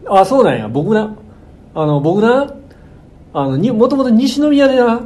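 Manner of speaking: lightly voiced pushy Kansai shop owner; 関西弁でマウントを取る店主. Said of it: "関西弁マウント取ってきて". (馴れ馴れしい関西弁の店主風)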